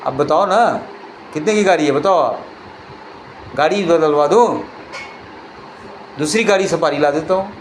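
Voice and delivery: lightly voiced easygoing calm; calm offer. Ratan Tata calmly offers to replace the Safari, unhurried and gentle. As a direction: stay relaxed and generous. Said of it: "ये आराम से बोला फिर उस पे।".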